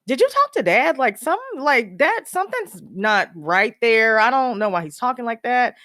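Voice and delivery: retelling her alarm with heavy emphasis. Retold or imitated. Daughter asking her sister about Dad's odd talk, alarmed.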